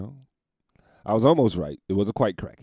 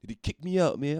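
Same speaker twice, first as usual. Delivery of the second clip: lightly voiced indignant cokehead, higher; mock outrage from the kicked-out guy; 7 semitones higher, 4 dB louder than usual. Coked-up guy complaining to the comedian, in indignant mock outrage. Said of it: "He's indignant".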